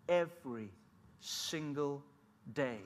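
every, single and day spaced out, each one weighted; slow, weighted every single day; stress on every single day. Retold or imitated. Words spaced for emphasis.

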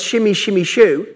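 mock tongues babble. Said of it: "to mimic".

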